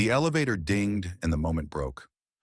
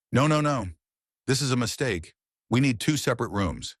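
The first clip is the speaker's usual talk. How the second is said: panicked protest; 6 semitones higher than usual. A narrator's reading. Panicked protest at hotel desk.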